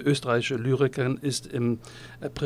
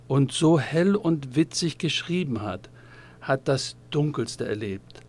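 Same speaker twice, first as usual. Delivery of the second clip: solemn tribute reading. Acted. Reads out a written tribute.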